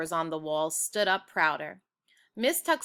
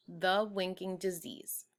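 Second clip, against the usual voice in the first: hushed chapter title; whispered title; 6 dB quieter than usual. A narrator's reading. Reader announcing the chapter in a whisper. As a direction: breathe the title softly.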